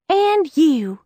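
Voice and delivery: pointed call-out; accusing. Acted. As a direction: spin on her with it. Liz spinning on Cam.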